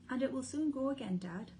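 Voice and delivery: high, eager little fox; lightly voiced young cub; small child voice. Small fox speaking to father.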